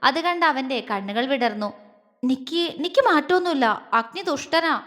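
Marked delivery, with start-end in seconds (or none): 2.2-3.9 higher, teasing pout; playful sulk. Acted. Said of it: "അവൾ കുറുമ്പോടെ പറഞ്ഞു". 3.9-4.8 ദുഷ്ടനാ said as a pouting tease; ദുഷ്ടനാ with a sulky falling pout; playful sulk. Acted. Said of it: "അവൾ കുറുമ്പോടെ പറഞ്ഞു".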